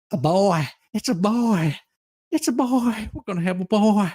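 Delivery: mocking petitioner.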